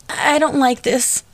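put-on high, slow tearful child; a scared kid near tears; crying. A narrator's reading. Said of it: "Mark cried as big tears".

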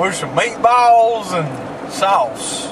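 very slow hick drawl; country hick voice. Retold or imitated. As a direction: stretch it out like a country boy. Mocking the country friend.

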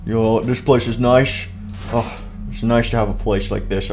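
low, soft comfort; relaxed, low-pitched pleasure; contented. Acted. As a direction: settle in with lazy satisfaction. Intruder settles in comfortably.

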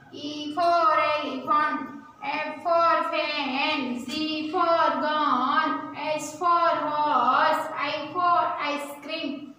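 very slow, drawn-out classroom recitation; alphabet recitation. Shown as a demonstration. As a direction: stretch each word so pupils can join in.

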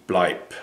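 bleib as BLIPE, with a clipped p sound at the end; low quiet command bleib; German bleib. Shown as a demonstration. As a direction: say bleib short, ending in a p. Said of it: "B L E I B".

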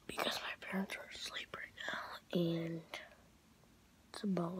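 soft breathy whisper, voice off. Real, not acted. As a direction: keep it hushed while parents sleep. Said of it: "I'm whispering".

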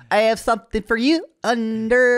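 high, hammed-up tipsy come-on.

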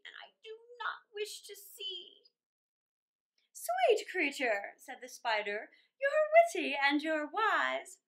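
lilting storybook reading; a children's storyteller reading verse; poem reading. A narrator's reading. Reads poem aloud.

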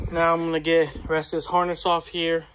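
breathless from the work; winded, talking between breaths. Real, not acted. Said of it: "Man, I'm out of breath on that one".

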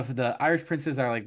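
ordinary delivery

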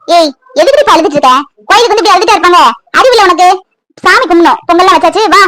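mildly cross telling-off; impatient, firm scolding. Acted. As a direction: chide someone for crying. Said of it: "எதுக்குத்தான் மகா திட்டுறீங்க".

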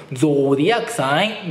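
put-on Irish-accented ゾーディアックサイン with a stretched round "oh". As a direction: say it as a heavily accented Irish girl would. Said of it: "その子にかかると". (アイルランド訛りの「ゾーディアックサイン」)

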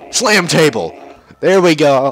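夸张的动漫配音; overacted anime dub. Voicing game cutscene dialogue.

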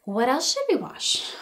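ordinary talk

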